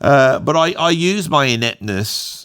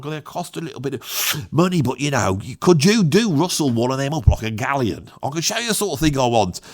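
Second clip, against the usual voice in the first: Cockney. Retold or imitated. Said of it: "He's like".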